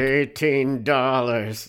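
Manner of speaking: clenched-jaw slow line; through gritted teeth. Retold or imitated. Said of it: "always talking through gritted teeth".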